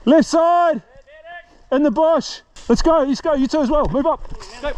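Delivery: high urgent squad commands; shouted orders. Real, not acted. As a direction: push the team forward.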